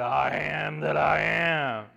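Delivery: slow shouted proclamation; God speaking to Moses, slow and shouted; divine declaration. Acted. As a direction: thunder it slowly like God.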